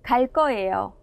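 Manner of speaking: 갈 거예요 with 거 tensed to 꺼; tensed consonant demo. Shown as a demonstration. Teacher models 갈 거예요 for learners, tensed 꺼. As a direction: say 갈 거예요 as 갈 꺼예요, doubled k. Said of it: "phát âm theo cô Kim".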